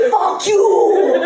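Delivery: hammed-up lisping defiance; childhood lisp. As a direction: tough retort in a slushy kid's lisp. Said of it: "instead of sounding like this".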